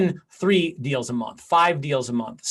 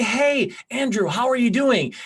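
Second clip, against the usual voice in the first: higher, bright hello to a friend; cheery phone greeting; 6 semitones higher than usual. Shown as a demonstration. Agent calling a friend in the database, cheery and high. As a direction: sound glad to reach him. Demo call to a sphere contact.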